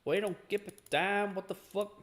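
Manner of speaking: lightly put-on redneck accent; Stanley. Imagining Stanley from America, light redneck voice. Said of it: "the most redneck ass voice".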